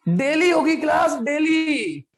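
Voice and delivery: firm, drawn-out insistence; emphatic repeat. Real, not acted. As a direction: drive the answer home to a student. Repeats answer to student, exasperated. (ज़ोर देकर दोहराते हुए)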